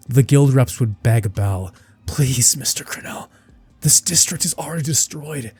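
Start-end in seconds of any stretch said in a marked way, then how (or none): 2.1-5.5 pleading. Acted. Guild reps beg Bel.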